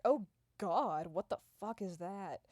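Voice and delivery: loud startled shriek then mutter; horrified. Retold or imitated. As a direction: recoil in horror. People horrified by face.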